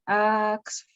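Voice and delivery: "Axfasat" broken into slow, separate syllables; struggling to pronounce. Real, not acted. Teacher trying a hard name for the class, struggling to pronounce. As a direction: feel your way through "Axfasat" bit by bit. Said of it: "Me cuesta pronunciar este nombre".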